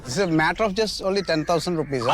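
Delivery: a laughing shrug; dismissive laugh over the money. Acted. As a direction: make light of it with a laugh. Laughing off the debt.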